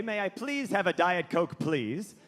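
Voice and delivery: meek, mannerly little request; polite request. Shown as a demonstration. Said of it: "you're supposed to say".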